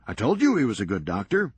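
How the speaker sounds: brisk, sardonic comeback; wry Serge. Acted. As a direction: toss it off dryly, quick. Serge answers Rusty.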